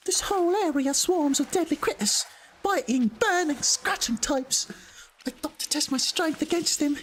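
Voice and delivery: high-pitched put-on British character voice; inner city British accent. Streamer voicing a weary game character, high British accent. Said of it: "inner city British accent or something".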